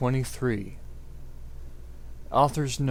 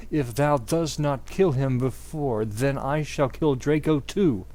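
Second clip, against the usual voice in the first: evil raspy villain. Acted. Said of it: "said evilly in his raspy voice".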